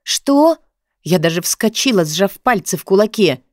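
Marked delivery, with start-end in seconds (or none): 0.0-0.6 sharp high shocked Что?; surprised. A narrator's reading. Shocked heroine reacts to his insult, high and sharp. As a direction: jump up in disbelief.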